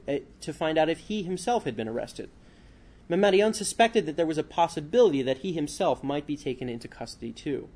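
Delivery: measured author reading aloud, phrase openings lifted; book reading. A narrator's reading. Author reading a book section to listeners, narrated read-aloud.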